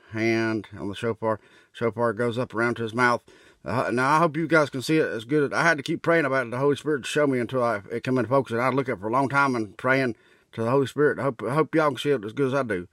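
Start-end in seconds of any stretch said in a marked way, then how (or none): 3.6-12.9 louder, eager and hurried; excited pleading with viewers. Real, not acted. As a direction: urge them to see it too.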